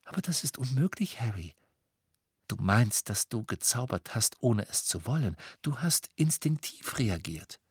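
friend gently correcting him; gentle. Acted. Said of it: "sagte Hermine sanft".

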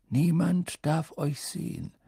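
measured, serious caution; grave warning. A narrator's reading. Headmaster cautioning two pupils, grave and measured. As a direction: warn them soberly in one phrase. First warning, less drawn out.

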